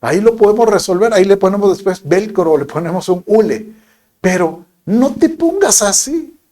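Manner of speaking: calm her down gently; reassuring. Retold or imitated. Husband calming his upset wife about the bag, reassuring. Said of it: "yo le digo".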